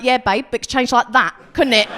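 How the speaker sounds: smug mock comfort. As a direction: throw "could change like that" back at her. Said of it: "And I'm like".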